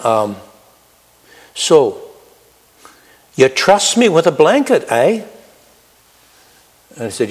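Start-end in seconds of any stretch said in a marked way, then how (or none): 1.5-5.2 lightly imitated Irish accent, pitched up; Patrick's Irish accent. Homeless friend questions the gift of a blanket, light Irish accent. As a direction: question him in a slight Irish lilt, higher. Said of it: "I think he said then".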